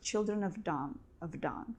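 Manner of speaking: "have" said as a weak "'ve", no H. Shown as a demonstration. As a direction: slur "have done" with the H dropped. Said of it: "Here we don't pronounce H".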